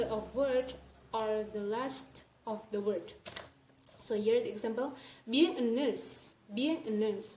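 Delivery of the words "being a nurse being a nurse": "nurse" said as nuhs, without R; "being a nurse" with an R-less ending; dropped R. Shown as a demonstration. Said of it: "not pronounce the R sound".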